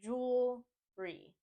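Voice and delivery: jewelry slowly as JOOL, ree; split in two. Shown as a demonstration. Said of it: "Just adding that re on the end".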